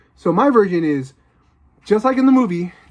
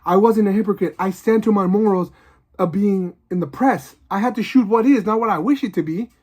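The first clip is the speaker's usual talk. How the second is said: mildly enraged; 4 semitones higher than usual. Retold or imitated. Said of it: "really enraged guy".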